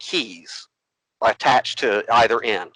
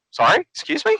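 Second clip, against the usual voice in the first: mock surprise. Retold surprised reply to accusation.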